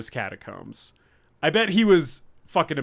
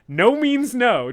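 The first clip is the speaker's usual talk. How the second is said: slow, loud, high mock protest; mock firm refusal; 7 semitones higher, 6 dB louder, slower than usual. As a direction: drag it out like a firm stand. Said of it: "And he's like".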